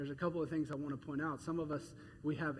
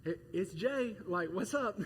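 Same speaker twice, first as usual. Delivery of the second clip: casual greeting; 2 semitones higher than usual. Pretend. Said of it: "this isn't really casual".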